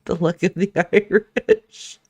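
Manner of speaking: a hint of a Jamaican lilt, laughing; Jamaican accent. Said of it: "I did a Jamaican accent".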